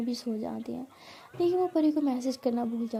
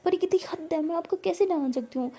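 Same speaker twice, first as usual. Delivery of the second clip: indignant; 5 semitones higher than usual. Acted. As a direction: protest that she is laughing at the anger. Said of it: "मुझे तो गुस्सा आ रहा है". (नाराज़गी भरा विरोध)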